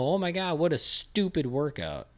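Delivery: high-pitched exasperated parody of the gushing; mock-horrified disbelief. Trainer answering fans of a crazy workout clip, exasperated disbelief. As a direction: start high, drag out the scornful verdict. His own retort to the gushing.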